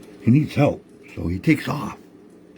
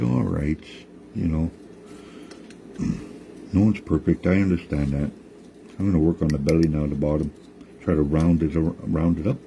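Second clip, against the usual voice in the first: put-on lower, calm old woman; 4 semitones lower than usual. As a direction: answer kindly as the grandmother, pitched down. Nokomis voiced in story.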